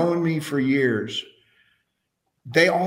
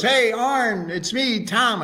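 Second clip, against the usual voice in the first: high, bright-eyed friend voice, lightly put on; a cheerful old buddy calling out, pitched up; voicing Tom; 9 semitones higher than usual. Telling the host how Tom greeted him, in a high friendly voice.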